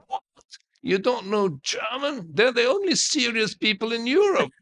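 mock outrage at his ignorance; incredulous prince. The old prince asks why he knows no German, sounding astonished.

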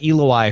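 "Eloi" said as EE-lo-eye; comparison pronunciation. Shown as a demonstration. Co-host comparing it to the Time Machine word, demonstrated "Eloi". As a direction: say "Eloi" with a long "ee" at the start. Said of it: "from the H G Wells Time Machine".

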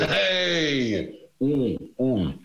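giggly chimp hoots, high; hooting giggly monkey. Pretend. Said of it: "You've been doing one the whole show".

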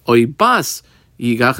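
slowish, leaning on yigach; a teacher marking yigach; stress on yigach. Shown as a demonstration. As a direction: give yigach the weight. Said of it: "I squiggle underline that word yigach".

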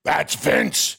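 lightly held boss impression; Vince McMahon. Performer asked whose voice it is, impression lightly held. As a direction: answer still half in the boss's voice. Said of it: "Is that you or Vince McMahon?".

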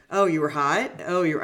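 mocking, smart-aleck echo of the customer; sarcastic mirroring. Shown as a demonstration. Coach demos a sarcastic mirror to the customer, mocking. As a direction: throw their words back with a sneer. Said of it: "the way you did your voice inflection there was so offensive".

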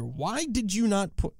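high, incredulous outburst; outraged. Real, not acted. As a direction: squeal it in disbelief. Outraged at missing player.

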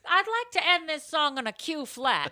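mocking Julie. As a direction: imitate a singer making an announcement. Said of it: "She's like".

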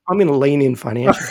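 slipping in a preacher's pitch; half-laughing fake pastor line; mock preacher pitch.

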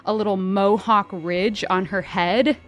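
slow, hushed game master build-up; dramatic scene narration. Acted. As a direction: set the scene slowly over music.

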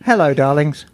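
low sultry darling greeting; breathy vintage purr. Pretend.

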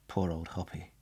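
low, soft and grieving; sad. Acted. Crew mourns a shot-down pilot.

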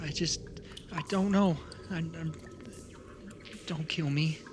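lightly voiced frightened kid, halting and stammering; a young survivor stumbling through the story; grieving child tells of the attack; scared child.

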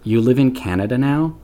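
mild deadpan dismissal, voice dropping away; stern dad. Retold or imitated. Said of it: "in my face says".

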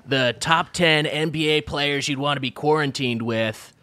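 light podcast-host parody, rattling off the rundown; Bill Simmons. Acted. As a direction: lightly mimic a sports podcaster's intro. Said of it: "start over again just with your Simmons bullshit".

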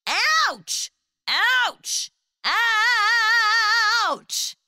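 high yelps of pain; deer crying out. A narrator's reading. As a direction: yelp as if bitten over and over. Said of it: "she heard the deer cry out".

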